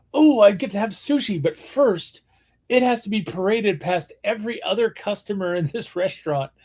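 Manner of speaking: lightly hammed-up eager diner; mock excitement. Mock pitch of conveyor sushi appeal.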